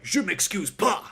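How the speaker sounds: high, slow retold French refusal; unapologetic refusal. Angry customer refusing to say sorry, unapologetic. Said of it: "very unapologetic".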